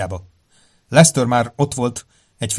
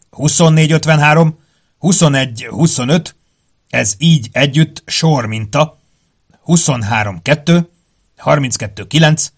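reading aloud; 5 semitones higher, 6 dB louder than usual. Acted. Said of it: "belefogott a felolvasásba".

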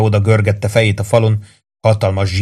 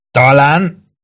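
higher, amused lilt; hint of laughter in a raised voice; between fits of laughter; 5 semitones higher, 4 dB louder than usual. A narrator's reading. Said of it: "mondta Warden két röhögő görcs között".

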